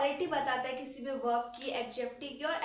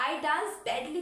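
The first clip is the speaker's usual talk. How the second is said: a bit louder, showing a bad dance; expressive badly; 3 semitones higher, 4 dB louder, much slower than usual. Shown as a demonstration. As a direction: say "badly" with a note of disgust. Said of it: "मेरे expression भी इसमें change है".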